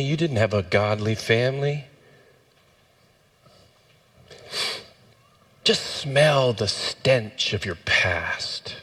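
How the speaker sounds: understated taunts of a devil, spaced by long pauses; lightly voiced accusing devil. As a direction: needle the listener as the accuser, only lightly acted. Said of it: "That's how he talks".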